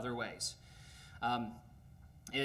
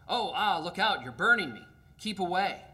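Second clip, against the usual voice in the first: higher, louder yelp of pain, backing away; ghost in pain; 5 semitones higher, 6 dB louder than usual. Acted. Ghost recoils from the burning angel, yelping in pain. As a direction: cry out as the fire burns you. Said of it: "said the ghost, retreating".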